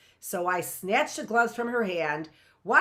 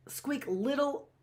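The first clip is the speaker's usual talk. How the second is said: squeaky; 4 semitones higher, slower than usual. A narrator's reading. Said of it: "commences to stutter and squeak".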